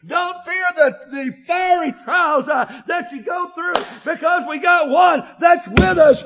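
loud, rising preacher's cadence, shouting out the praise lines; full-force preaching. Acted. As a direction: preach it hard to the congregation.

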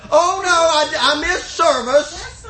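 slow, drawn-out fake lament; hammed-up "oh no" wail; mock dismay. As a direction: put on regret for the congregation. Mock regret at missing church.

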